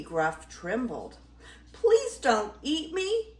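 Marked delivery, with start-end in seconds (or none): 1.7-3.3 high, pleading little squeak; squeaky baby goat. Acted. Baby Gruff begging the troll, high squeak. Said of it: "he squeaked".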